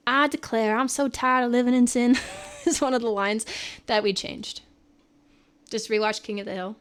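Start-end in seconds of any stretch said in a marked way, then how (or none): 0.1-2.2 hammed-up Southern belle accent. Shown as a demonstration. Streamer performing an old show line, Southern belle accent. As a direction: declare it like a stage Southern belle. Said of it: "like a Southern belle accent".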